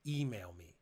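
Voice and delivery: low, slow, quiet closing command; slow and weighty. Shown as a demonstration. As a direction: drop the voice and let it land. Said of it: "I tried to slow down my voice".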